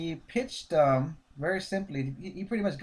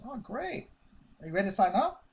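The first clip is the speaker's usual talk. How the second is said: mock eager salesman; 6 semitones higher than usual. Eager salesman voiced in role-play.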